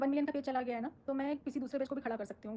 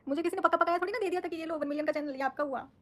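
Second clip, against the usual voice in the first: loud defiant retort; 4 semitones higher, 4 dB louder than usual. Real, not acted. Retorting to critics on live.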